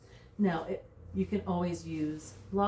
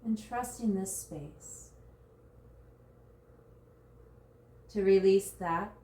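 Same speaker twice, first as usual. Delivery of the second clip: guided meditation. Real, not acted. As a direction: guide them gently into surrender, drawing out key words. Leads a body scan meditation.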